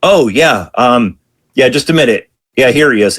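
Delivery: mock-compliant phone answer; lieutenant passing the call. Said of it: "And the lieutenant goes".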